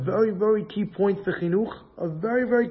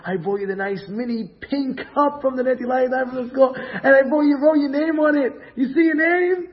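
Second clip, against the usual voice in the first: excited mother; 6 semitones higher than usual. Acted. Mother showing her child a new cup, excited. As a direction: show off a present to a little one.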